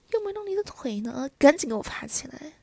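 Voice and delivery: loud, exasperated order; angry command. Acted. Wife ordering her husband up, loud and angry. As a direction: raise the voice sharply and demand obedience.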